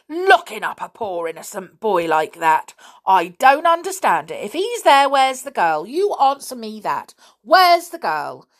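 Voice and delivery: high, loud, indignant scolding. A narrator's reading. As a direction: rail at them in outrage, punching key words. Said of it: "voice of Missus Stick raised in anger".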